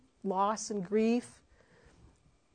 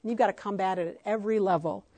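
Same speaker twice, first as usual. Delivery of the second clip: mama bear scolding; 3 semitones higher, 6 dB louder than usual. Retold or imitated. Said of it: "I'm like".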